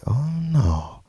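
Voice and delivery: slow, low "hell no" drawn out; understated mock horror; slow disbelief. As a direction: refuse flatly under your breath. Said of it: "I'm like".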